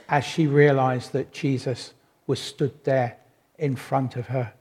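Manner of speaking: ordinary talk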